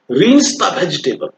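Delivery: slow, careful teacher model of Rinse the vegetable; slow classroom demo of Rinse the vegetable; slow model phrase. Shown as a demonstration. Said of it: "आर I N S E".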